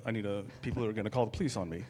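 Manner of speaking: fast, hurried worry under the breath; panicked aside. Retold or imitated. Man fearing passersby will call police, fast and panicked. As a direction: rush it as though caught. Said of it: "I'd be like".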